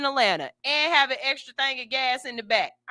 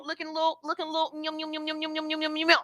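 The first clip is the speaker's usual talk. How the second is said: sing-song yum yum, a bit higher; playful yum; 5 semitones higher, 6 dB quieter, much faster than usual. Acted. To viewers, showing off her workout body, playful and higher. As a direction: savor it like candy.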